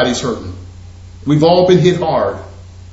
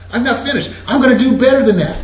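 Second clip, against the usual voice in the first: chuckling through the words; laughing; 7 semitones higher, faster than usual. Retold or imitated. Investor teasing the homeowner with more, laughing. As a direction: laugh as you tease him with a better deal.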